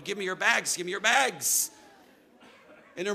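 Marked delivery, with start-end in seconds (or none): 0.0-1.7 lightly voiced pleading bellhop; a hint of a persistent bellhop; chasing bellhop. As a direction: call after them as you chase. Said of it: "He's chasing us through the hotel going".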